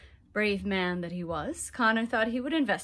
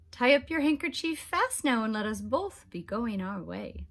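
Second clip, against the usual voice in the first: leprechaun; 3 semitones higher than usual. Acted. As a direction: hurry him, a cheeky fairy man. Leprechaun urging Conor on.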